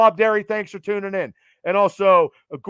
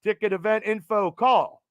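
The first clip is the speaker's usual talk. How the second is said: radio voice. Pretend. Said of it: "It's my radio voice".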